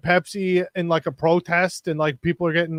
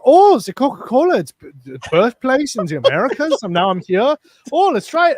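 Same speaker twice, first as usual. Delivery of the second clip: excited tourist voice, higher and louder; German guy; 5 semitones higher, 6 dB louder than usual. Retold or imitated. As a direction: play an eager German visitor trying the Coke. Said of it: "the German guy comes up, he's like".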